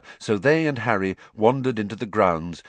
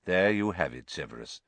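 composed, dropping lower and softer; calm; 3 semitones lower, 5 dB quieter than usual. A narrator's reading. Headmaster closing the argument with Severus, calmly. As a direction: settle the matter unruffled, voice falling away. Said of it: "said Dumbledore calmly".

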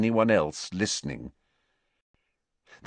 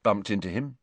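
evasive; 3 dB quieter than usual. Acted. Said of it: "said Harry evasively".

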